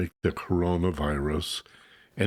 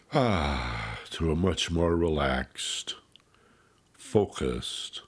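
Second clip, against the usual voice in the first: relaxed sigh; 2 semitones lower, slower than usual. Shown as a demonstration. Host guiding beginners from scattered to relaxed, calm sighing release. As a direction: ease in on a sighed "ah", then settle.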